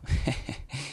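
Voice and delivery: short breathy scoffing laugh; derisive snort. Acted. Thief mocking the elf, derisive snort. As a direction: snort softly in scorn. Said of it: "the thief snorted derisively".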